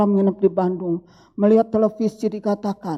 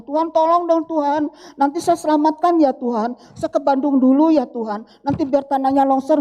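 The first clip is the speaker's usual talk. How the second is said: higher-pitched imitation of bargaining with God; mock pleading prayer; 5 semitones higher than usual. Believer asking God to save him later, mock pleading. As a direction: plead lightly, as if haggling in prayer.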